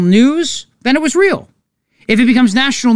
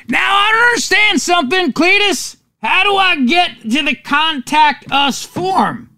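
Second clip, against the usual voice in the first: bad Southern accent; 7 semitones higher than usual. Host voicing Cletus baffled by the contact form, mock Southern accent. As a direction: play a puzzled Southern yokel, pitched up. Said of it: "Southern accents, which is why that accent".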